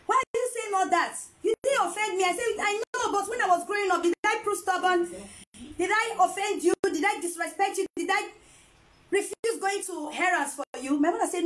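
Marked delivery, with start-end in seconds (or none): 0.1-2.2 lightly acted mother, higher pitch; concerned mother. Mother answers crying daughter on phone, mildly acted concern. 2.6-11.0 higher-pitched mock pleading questions; retold tearful pleading. Daughter apologizing to mother by phone, retold pleading. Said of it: "I was crying on the phone".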